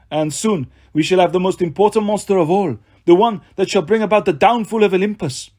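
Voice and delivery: menacing villain voice. Acted. Villain Doctor Fawn speaks.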